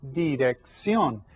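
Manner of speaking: slow "dirección", weight on the final "ción"; careful teacher's "dirección", last syllable stretched; stress on last syllable. Shown as a demonstration. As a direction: lean on the end of "dirección". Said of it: "tells us to stress this syllable".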